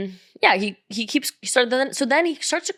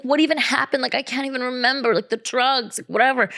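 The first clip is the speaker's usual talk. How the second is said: higher-pitched imitation of his protest; mock him playing confused, pitched up; mock whiny excuse; 5 semitones higher than usual. Man told to get out pleads he can't remember, mock whine.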